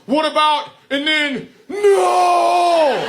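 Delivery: high, loud panicked shout; embarrassed yell. Retold or imitated. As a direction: blurt it out mortified, breaking off. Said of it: "That's what he yelled".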